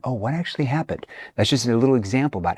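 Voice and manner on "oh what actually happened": soft, quieter, leaning in with concern; hushed empathetic question. Shown as a demonstration. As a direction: lean in and ask gently. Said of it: "your tone shifts".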